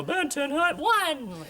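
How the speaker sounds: high-pitched marching call, imitated; mock shouted command. Band camp marching drill, mock shouted call. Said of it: "Why are we shouting "one".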